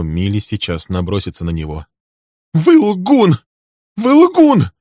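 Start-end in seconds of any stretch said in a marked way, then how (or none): 2.5-3.4 high, loud scream of accusation; a secretary screaming at the man. Acted. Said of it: "закричала она". 4.0-4.7 the repeat pushed up to a shriek; second time, top of the voice; secretary shrieking her accusation again; shrieking even higher. Acted. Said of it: "закричала она".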